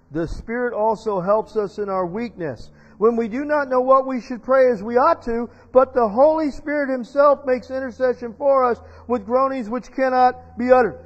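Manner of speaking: loud, emphatic preacher reading scripture; preacher's ringing verse reading; scripture read aloud. Acted. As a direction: proclaim the verse with force.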